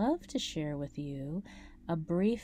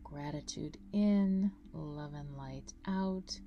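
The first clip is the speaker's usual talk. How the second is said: guided meditation. Acted. Guide leading listeners through a grounding breathing meditation, calm meditation voice. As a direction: guide them through each breath, unhurried, drawing out key words.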